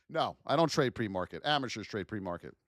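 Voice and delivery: normal talking voice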